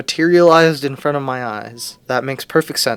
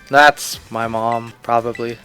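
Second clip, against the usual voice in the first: slow, unenthused drone; bored mumble about mom; flat deadpan; 4 semitones lower, 3 dB quieter, slower than usual. Retold or imitated. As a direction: say it with zero enthusiasm. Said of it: "He says it with such enthusiasm".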